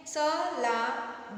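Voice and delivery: स... ला... द, each syllable of सलाद split apart. Shown as a demonstration. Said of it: "ठीक है".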